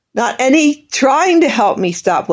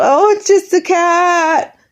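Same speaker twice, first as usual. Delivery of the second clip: higher, slow, brushing-off mother voice; dismissive mother; 7 semitones higher, slower than usual. Retold or imitated. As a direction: mimic the mother waving it away. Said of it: "and I was told".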